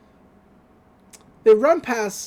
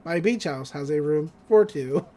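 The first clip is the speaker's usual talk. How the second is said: flat robotic voice; 4 semitones lower than usual. Retold or imitated. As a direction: speak like a robot. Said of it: "a real robotic voice says".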